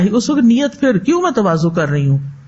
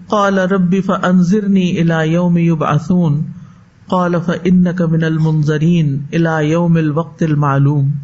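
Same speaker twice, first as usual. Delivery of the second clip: slow, measured chanting of the verse; slow reverent recitation; Quranic recitation; 4 semitones lower, slower than usual. Acted. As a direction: recite it like tajweed, unhurried.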